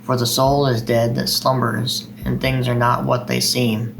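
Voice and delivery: slow, measured poetry reading; unhurried recital voice with steady cadence; poem recitation. Acted. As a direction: read it like a poem to an audience. Reads Longfellow aloud.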